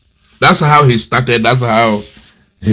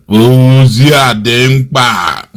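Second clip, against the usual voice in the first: slow drawn-out quote; much slower than usual. Retold or imitated. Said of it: "He's imitating Nnamdi Kanu".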